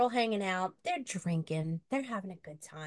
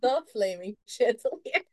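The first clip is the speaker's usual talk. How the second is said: spooky title announcement; 3 semitones higher, 6 dB louder than usual. Acted. Repeating title dramatically.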